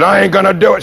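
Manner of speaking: high, shouted refusal; defiant shout. Retold or imitated. Driver's defiant answer, acted.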